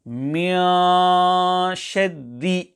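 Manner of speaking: recited "مِنْ شَرِّ" with the nasal noon opened into a long vowel; incorrect open-mouth ikhfa. Shown as a demonstration. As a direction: demonstrate the mistake: let the mouth hang open on the noon of "مِنْ" before "شَرِّ". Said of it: "the sound of the ikhfa will be incorrect".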